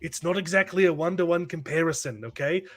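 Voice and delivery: imitated British band accent. Jesus explains the comparison to Mary, in a mock British accent like a famous band's. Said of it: "they're all talking in their British accents".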